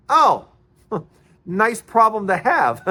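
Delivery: amused mock envy; laughing tease. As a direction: tease her through a laugh. Laughing reply about the Mercedes.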